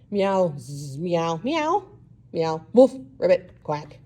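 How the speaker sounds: chorus of animal noises. Acted. All animals talk at once.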